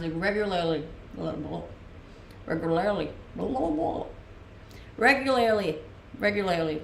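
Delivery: "Regularly" retried with muddy, tangled r and l; tongue-tied pronunciation. Shown as a demonstration. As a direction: keep tripping over the r and l in "Regularly". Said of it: "vomit in my mouth".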